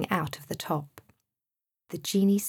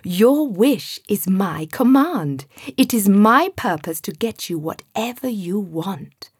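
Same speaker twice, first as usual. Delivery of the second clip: with a huge grin; 2 semitones higher, 8 dB louder than usual. A narrator's reading. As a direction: smile through a grand promise. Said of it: "with a huge grin".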